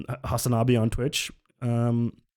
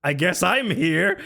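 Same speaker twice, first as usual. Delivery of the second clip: mock resigned; 4 semitones higher than usual. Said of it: "Andrew is just there like".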